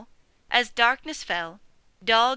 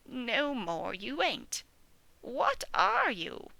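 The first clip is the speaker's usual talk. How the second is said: put-on slow old sheep voice, drawn out; a hint of a weary old ewe; 3 semitones higher, 4 dB quieter, slower than usual. Old sheep peering up at the pig, old ewe voice.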